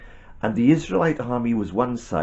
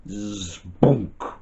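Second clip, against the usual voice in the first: buzzing build into a thunk; spoken cartoon impact noise; imitated thud. A narrator's reading. Storyteller voices the giant being struck, comic thunk. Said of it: "he went".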